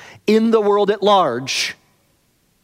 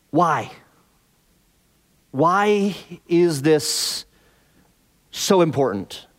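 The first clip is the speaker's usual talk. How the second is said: drawn-out question; much slower than usual. Real, not acted. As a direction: stretch the why right out, very slow. Rhetorical question repeated.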